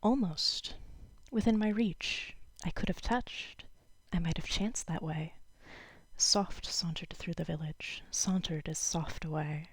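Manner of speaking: lifted opening, then settling into measured verse; lightly performed poem recital; poetry reading. Acted. Reads a short poem aloud.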